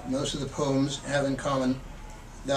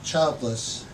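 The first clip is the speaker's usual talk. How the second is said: measured, expressive poetry reading; poem reading. Acted. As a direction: read the poem like you're savouring each image. Poet reads the poem Adoption.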